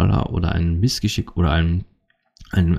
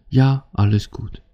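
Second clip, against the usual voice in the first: higher, drawn-out everything's fine; unconvincing, lilting reassurance; feigned all-is-fine; 6 semitones higher than usual. Acted. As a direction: insist nothing's wrong, slow and high. Acted partner insisting all is fine.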